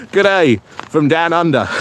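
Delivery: mock Australian G'day, barely put on; a half-hearted Aussie greeting; terrible Australian accent. Greeting a viewer in a mock Australian accent. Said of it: "that's my terrible Australian accent".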